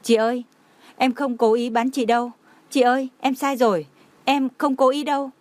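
a touch of tears, begging forgiveness; choked voice. Acted. Dying Lam Tịnh begs her sister, understated choked sobbing. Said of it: "Giọng của Mạc Lam Tịnh cũng nghẹn ngào".

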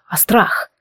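breathy whispered word, voice almost gone. Acted. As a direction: let the word fall to a whisper. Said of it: "едва удерживая голос ровным".

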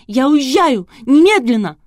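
furious bride screaming that she is leaving; hysterical scream. A narrator's reading. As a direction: shriek it in full hysterics. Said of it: "Вопила истерично".

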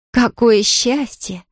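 slow, drawn-out mock delight. Nancy mocks Pollyanna's game, slow sarcastic delight. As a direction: stretch it out with sarcasm. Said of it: "с неожиданной насмешкой в голосе".

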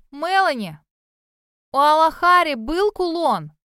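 loud call down the well; shouting. A narrator's reading. Cassie shouts down the well to Melanie. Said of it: "выкрикнула".

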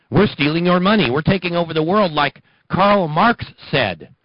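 gleeful mock villain; sneering villain voice. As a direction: confess it like a cartoon villain. Voicing the conspirators' confession.

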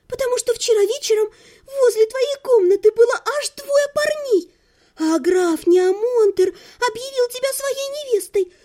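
put-on high, breathless girlish chatter; gushing young girl. A narrator's reading. Lidia excitedly plans a double wedding with Algerda, high.

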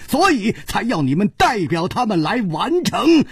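由低沉分析渐渐升高成激昂反问; 越说越快越高，句末高声质问; 步步紧逼的推理. Acted. Chu's deduction builds to challenge. (层层推进，咄咄逼人)

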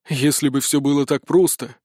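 mild resigned sigh; a touch of weary doubt. Acted. Spirt doubts the rescue plan, sighing mildly. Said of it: "вздохнул Спирт".

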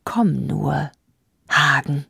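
unvoiced menacing whisper; queen whispering to herself about Hagen; inaudible whisper. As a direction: breathe the words to yourself. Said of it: "flüsterte sie unhörbar".

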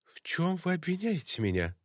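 barely holding back rage; voice trembling with anger. Acted. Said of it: "Руки её дрожали от гнева, как и голос". (голос дрожит от гнева)

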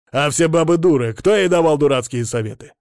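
loud scornful shouting challenge; angry retort. A narrator's reading. Patient yelling at the therapist in the quarrel, loud. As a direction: demand an answer, furious.

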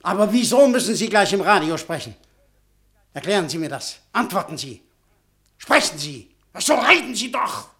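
rising fury, pressing for an answer; angry demand. Acted. Butschan pressing the professor, growing angry. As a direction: hammer him to talk.

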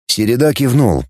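usual speaking voice

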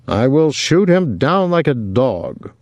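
hammed-up threat at normal volume; lightly voiced Willie. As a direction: declare it with a theatrical swell.

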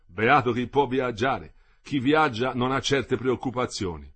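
put-on slow, wistful old worker; a lightly voiced old man, musing slowly; old worker dreaming of trains, slow and wistful; old dean.

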